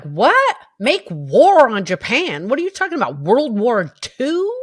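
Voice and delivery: indignant. Retold or imitated. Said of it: "I'm talking aloud indignantly".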